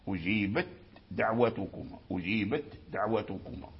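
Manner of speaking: أجيبت with its ت clearly voiceless and separate before دعوتكما; clear ta before dal. Shown as a demonstration. Teacher showing students the clear ta in أجيبت before دعوتكما. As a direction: sound the ت in أجيبت crisply, then a light د. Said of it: "فأظهر التاء عند الدال".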